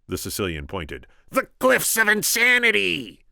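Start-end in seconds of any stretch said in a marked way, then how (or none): 1.3-3.2 much higher, loud proclamation; exclaiming. Acted. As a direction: announce it grandly. Announcing the cliffs.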